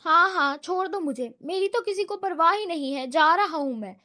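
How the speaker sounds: put-on the put-upon kid who threatens to walk out; sulky child. Danial sulks at his brothers like a sulking child. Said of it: "روٹھے بچوں کی طرح کہا".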